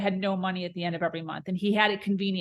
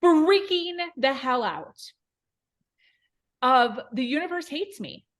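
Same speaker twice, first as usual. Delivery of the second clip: retold dramatic crying; 7 semitones higher than usual. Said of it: "I'm crying all dramatic in the car".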